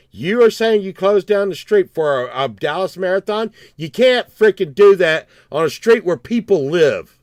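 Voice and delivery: loud, emphatic retold protest; indignant arguing. Resident confronting police over a closed street, indignant arguing.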